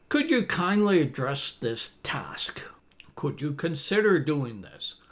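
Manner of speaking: whispered polite request. Shown as a demonstration. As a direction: breathe the words with no voice.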